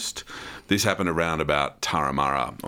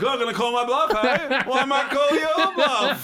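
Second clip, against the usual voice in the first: mock challenge; 4 dB louder than usual. Mocking the confrontation, laughing.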